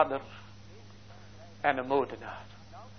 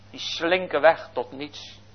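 usual speaking voice

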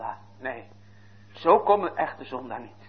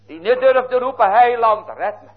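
higher and louder, pleading; impassioned rising cry; 9 semitones higher, 8 dB louder than usual. Acted. Preacher thunders what the woman dared not cry, loud and high. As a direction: cry out for the Saviour's help.

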